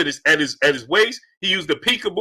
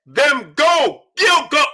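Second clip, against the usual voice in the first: slow, pleading yell that climbs higher; screaming at the TV; 6 semitones higher, much slower than usual. Retold or imitated. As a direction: beg him to throw punches, voice cracking. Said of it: "I'm screaming at the T V".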